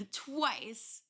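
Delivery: laughing. Real, not acted. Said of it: "laughs twice".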